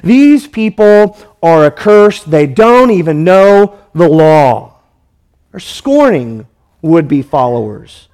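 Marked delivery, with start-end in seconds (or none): 0.0-4.8 contemptuous. Retold or imitated. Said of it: "the religious leaders say".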